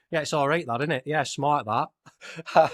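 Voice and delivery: understated Lancashire approval; Lancashire accent. Retold or imitated. Poster fan reacting to the artwork, understated Lancashire accent. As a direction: give mild praise in a Lancashire accent. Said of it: "said it in a more Lancashire accent".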